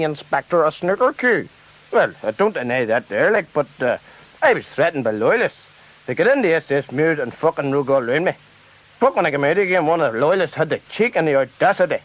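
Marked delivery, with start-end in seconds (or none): 1.9-12.0 lightly put-on lower voice of an aggrieved politician; a hint of a defensive politician making excuses; Gerry Fitt voice. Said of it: "Now, Mister Fitt".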